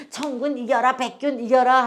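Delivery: mild imitation of a sports-day chant; childhood team cheer. Teacher recalls children cheering their team, light mock chant. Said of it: "우리 어릴 때 그냥".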